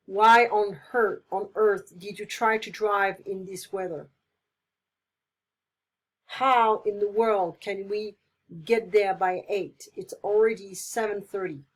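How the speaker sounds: loud slowed why on earth; exasperated. Shown as a demonstration. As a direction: scold and fret about time. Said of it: "show different strong feelings".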